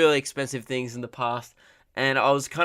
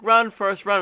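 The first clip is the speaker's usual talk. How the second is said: higher-pitched mock yell; imitated street yelling; 7 semitones higher, 4 dB louder than usual. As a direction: mimic passers-by yelling at a runner. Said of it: "yelled at them across".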